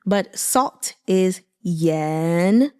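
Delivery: yen said slowly with a rising second tone; salt as yen, slow rising tone. Shown as a demonstration. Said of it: "So second tone".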